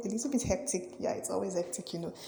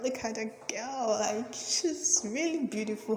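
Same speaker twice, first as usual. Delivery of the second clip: drawn-out admiration, rising higher; slow admiring gush; 3 semitones higher than usual. Real, not acted. Vlogger admiring herself in the finished dress, gushing slowly. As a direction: linger on it, marvelling.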